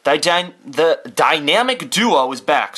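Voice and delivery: talking with food in mouth; mouth full. Real, not acted. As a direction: read it through a mouthful. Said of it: "I have shit in my mouth today".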